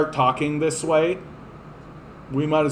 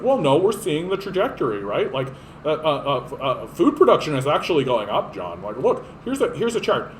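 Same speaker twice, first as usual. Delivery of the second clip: mock liberal. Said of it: "these stupid goddamn liberals are just like".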